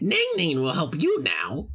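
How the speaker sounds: high, swooping, croaky frog voice. Narrator voices a frog-like head speaking in the listener's mind, croaking frog voice. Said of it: "A croaking voice sounds out in your mind".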